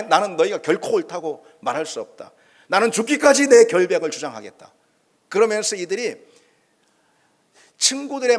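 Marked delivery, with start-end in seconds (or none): 0.0-4.7 building to a loud defiant vow; defiant declaration. Retold or imitated. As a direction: swear it louder toward the end. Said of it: "강하게 쏘아붙입니다".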